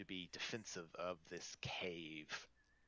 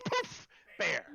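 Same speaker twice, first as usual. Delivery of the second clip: mock princess; 8 semitones higher, 6 dB louder than usual. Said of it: "Princess Vesper doesn't say anything".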